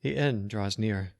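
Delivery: slow, trembling and mournful; trembling lament. Acted. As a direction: lament it with a shaking voice. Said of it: "his voice trembled".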